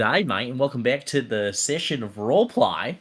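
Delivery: lightly voiced Aussie bloke; a hint of an Aussie host greeting; Australian accent. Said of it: "he's going in character".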